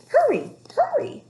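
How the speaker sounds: high loud urgent call. A narrator's reading. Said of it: "she called".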